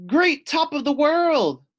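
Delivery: high, loud wail. Acted. Loony Little wails as the drop hits her. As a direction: cry it out in alarm. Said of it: "she wailed".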